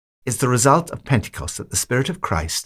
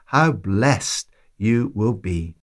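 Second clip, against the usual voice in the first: slow and tender; much slower than usual. Acted. Preacher savours the blessing.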